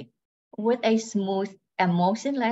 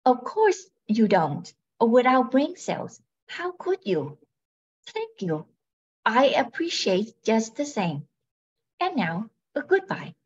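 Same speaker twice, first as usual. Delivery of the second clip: robot voice; 2 semitones higher than usual. Acted. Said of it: "She speaks in a robotic voice".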